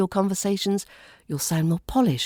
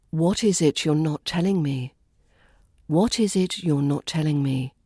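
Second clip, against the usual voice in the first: slowed-down practice line; 2 semitones lower than usual. Shown as a demonstration. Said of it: "Slow it down and practice speaking".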